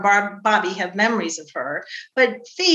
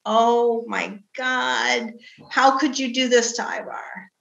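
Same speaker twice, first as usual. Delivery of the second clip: imitating crying sister; slower than usual. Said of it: "she called me up and she's crying".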